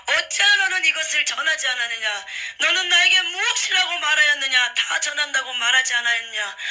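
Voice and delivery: Jesus rebuking a pastor loudly; stern rebuke. Retold or imitated. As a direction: demand an answer from the servant. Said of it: "막 그러면서 책망을 하시는 거예요".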